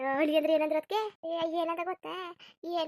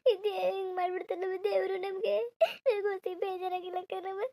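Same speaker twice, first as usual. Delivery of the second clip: laughing through tears. Acted. Daughter grieving the lost baby.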